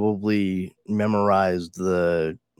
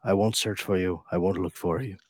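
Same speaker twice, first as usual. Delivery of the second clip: movie threat impression. Quoting the famous phone threat, mock menacing. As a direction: deliver it like a deadpan action hero. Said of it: "Brad Pitt?".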